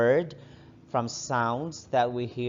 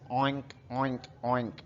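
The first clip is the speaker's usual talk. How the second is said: pig oink; 4 dB quieter than usual. Shown as a demonstration. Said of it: "Pigs says".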